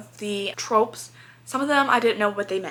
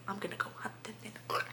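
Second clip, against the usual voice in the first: protective man; 16 dB quieter, faster than usual. Retold or imitated. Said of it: "I love when a man's just like".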